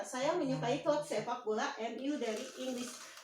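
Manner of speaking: "Saya menyukai klub sepak bola M U dari Inggris" on an even news-statement tune; level statement intonation. Shown as a demonstration. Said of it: "Jadi dia intonasinya mendata".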